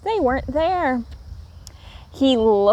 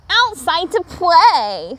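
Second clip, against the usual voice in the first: put-on eager child; 6 semitones higher, 4 dB louder, slower than usual. A narrator's reading. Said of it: "said Little Raccoon".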